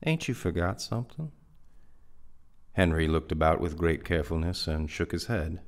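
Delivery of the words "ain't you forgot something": higher-pitched gentle reproach; coaxing, lightly reproachful query; gentle chiding. A narrator's reading. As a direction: chide gently, lifting the pitch into a question. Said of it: "he chided gently".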